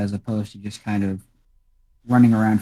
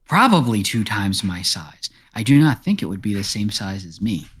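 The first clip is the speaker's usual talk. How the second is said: talking cat. Acted. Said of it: "looks at its paw and says".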